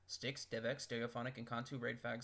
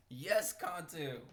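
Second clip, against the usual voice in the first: excited cheer; 5 semitones higher, 7 dB louder, much slower than usual. Real, not acted. Cheering the killer.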